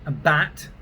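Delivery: "a bat" with the English A; English accent. Shown as a demonstration. Accent coach repeating the subtle distinction, English accent. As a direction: say "a bat" with an English actor's vowel. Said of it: "it's a subtle distinction".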